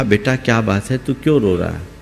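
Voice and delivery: put-on soft, low coaxing old woman; coaxing tenderly. A narrator's reading. Old mother coaxing a crying boy on the train, soft and tender. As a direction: coax the crying boy gently and softly. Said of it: "पुचकार करके पूछा".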